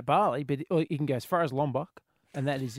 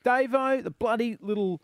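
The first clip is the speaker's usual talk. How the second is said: cheering; 5 semitones higher, 3 dB louder than usual. Real, not acted. Host cheering the Aussie legend.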